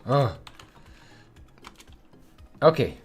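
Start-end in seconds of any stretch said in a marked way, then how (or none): 0.0-0.4 frustrated outburst. Real, not acted. Water won't fix, frustrated.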